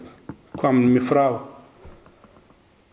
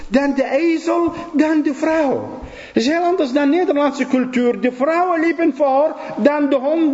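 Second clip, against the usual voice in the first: preaching voice; 12 semitones higher than usual. Acted. Preacher raises voice on culture.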